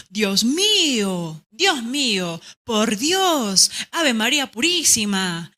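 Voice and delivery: slow, drawn-out dismayed cry; shocked exclamations. Shown as a demonstration. Teacher demonstrating shocked exclamations to the class. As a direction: gasp out like a startled churchgoer. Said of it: "son diferentes a decir".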